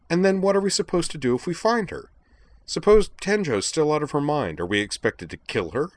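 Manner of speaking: high-pitched, sharp and incredulous; indignant high girl voice. A narrator's reading. Nanami objects in outrage.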